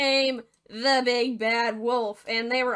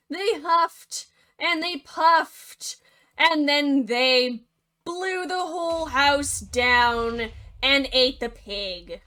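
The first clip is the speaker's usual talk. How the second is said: drawn-out huff and puff; 2 semitones higher, 5 dB louder, much slower than usual. Acted. Wolf blows the house down.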